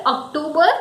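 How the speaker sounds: OCTOBER as ok-TOO-ber; wrong pronunciation. Shown as a demonstration. Teacher quoting many people's wrong pronunciation. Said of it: "many people say it October".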